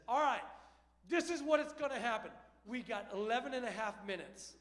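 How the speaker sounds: loud, rapid-fire drill instructions; barking pit-stop orders. Retold or imitated. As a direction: bark the rules at the whole family like a sergeant. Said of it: "somebody says".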